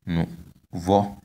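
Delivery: nouveau with the last vowel lifted; nouveau, careful demo with high final o. Shown as a demonstration. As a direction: model nouveau in two syllables, rising. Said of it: "tone is on the last vowel".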